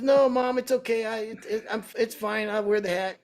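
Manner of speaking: high-pitched, appeasing protest; imitated placating owner. Owner reassuring the old woman about his hat, high and placating.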